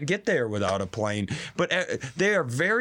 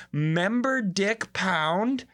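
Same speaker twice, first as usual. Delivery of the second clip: incredulous; 8 semitones higher, much slower than usual. Real, not acted. Incredulous repeat.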